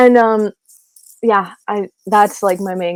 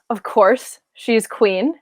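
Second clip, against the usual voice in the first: normal talking voice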